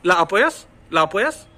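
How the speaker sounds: "ला अपोयस" as two words; questioning rise on "ला अपोयस", both vowels sounded; separate vowels. Shown as a demonstration. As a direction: keep ला apart from अपोयस. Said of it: "आप कैसे पढ़ोगे sentence को".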